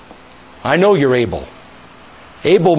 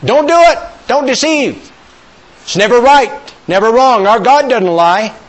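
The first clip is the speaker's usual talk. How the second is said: loud, high, urgent warning; forceful preaching; 7 semitones higher, 4 dB louder than usual. Real, not acted. Preacher warning the congregation against lying, forceful and loud. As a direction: hammer each line home.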